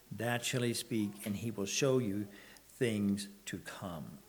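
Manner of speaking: measured, solemn reading of the verse; scripture reading. Acted. Preacher reading verses to the congregation, solemn. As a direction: read it like holy writ, with weight.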